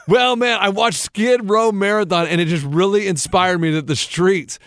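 hammy inspired street guy; mock homeless man. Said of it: "so what, what happened, Ray?".

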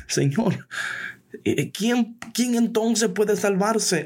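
high, slow bewildered question; Peter incredulous. Acted. Peter asking Jesus, high and bewildered. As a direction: ask it like a stunned disciple.

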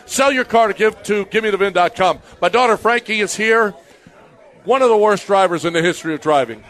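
brisk host-read sponsor spot; quick live radio ad read. Acted. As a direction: sell the car-buying site like a radio ad.

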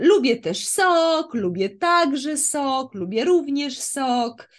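slow, clear model sentences; slow teaching demo. Shown as a demonstration. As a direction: spell out each example slowly. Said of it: "Twój przykład".

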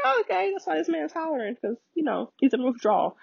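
high, laughing "oh, okay" of sudden understanding; mock realization. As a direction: play the dawning realization, amused and high. Realizing why man hollers.

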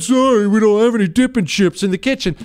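a hint of a meek, apologetic coworker; Michael's excuse. Michael apologizing for no chips, lightly mimicked.

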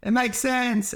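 drawn-out mocking revelation; mock epiphany. Mocking the newly diagnosed housewife, slow and high. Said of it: "then goes".

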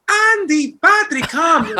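high, loud call of the airport staff; mock calling out. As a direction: summon them across the room. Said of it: "they were like".

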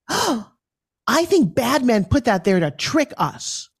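put-on high, slow child voice; little girl voice. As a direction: explain it like a wide-eyed kid. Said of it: "And she said".

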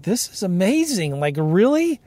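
can't believe the deal is this easy; excited disbelief. Retold or imitated. Telling how the title company's okay made him giddy, excited disbelief. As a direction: pitch jumps way up, giddy and amazed. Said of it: "man, I was so excited".

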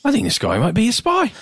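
high, fast put-on busybody voice; mock neighborhood watcher. Teasing the neighborhood watch, high fast busybody voice. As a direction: squeak it out like a proud amateur sleuth.

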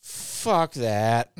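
lightly voiced Muppety guy; a hint of Muppet in a dismissive imitation. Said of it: "like, a Muppety voice".

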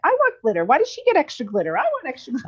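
mock whiny little girl, high; whiny child. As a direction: imitate a child begging for glitter. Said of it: "And Julie's like".

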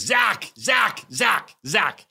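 loud, high excited calls; Janusz Kaminski. Retold or imitated. Loud cinematographer hailing the storyteller on meeting him, excited shout. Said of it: "He's loud".

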